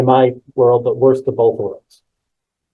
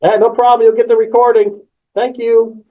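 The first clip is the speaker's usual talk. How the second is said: casual presenter; 7 semitones higher than usual. Shown as a demonstration. Casual plain-words example.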